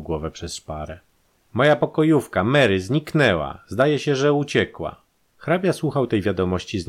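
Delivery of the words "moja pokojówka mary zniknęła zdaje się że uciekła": high, loud, agitated report; agitated news. A narrator's reading. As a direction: break alarming news with raised pitch. Countess reports maid has vanished.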